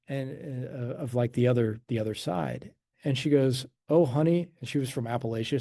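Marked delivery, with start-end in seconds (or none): 3.9-4.5 lightly put-on Appalachian hillbilly accent, pitched up; a higher-pitched touch of Appalachian hillbilly. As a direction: imitate grandma's hillbilly accent. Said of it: "she had this hillbilly accent".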